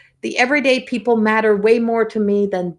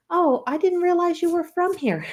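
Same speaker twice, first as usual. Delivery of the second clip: put-on much higher, a Newfoundland accent; imitating a Newfoundland local's surprise; 10 semitones higher than usual. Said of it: "someone said".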